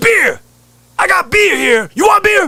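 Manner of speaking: very high, angry screaming sales pitch. Retelling a guy selling beer at a baseball game, imitating a screaming beer vendor. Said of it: "this guy screaming at everybody".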